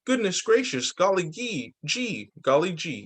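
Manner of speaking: high, bubbling delight; excited cheer. Acted. Boy cheering as his new wheelchair arrives. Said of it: "I let out a cheer".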